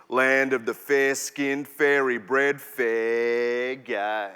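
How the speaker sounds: rhythmic, dramatic poetry performance; spoken word poem. Acted. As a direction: perform it like a slam poem, building and dropping.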